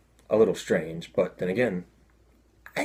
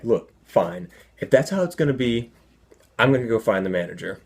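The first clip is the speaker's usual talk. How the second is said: mildly exasperated, a bit louder; frustrated man; 3 semitones higher, 4 dB louder than usual. Retold or imitated. Locked-out man threatens to fetch manager, mildly frustrated. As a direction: give up with a touch of irritation. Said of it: "Clearly frustrated, the guy's like".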